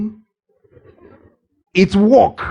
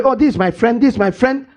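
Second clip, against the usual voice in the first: chatty introducing; 5 semitones higher than usual. Retold or imitated. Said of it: "You're getting into".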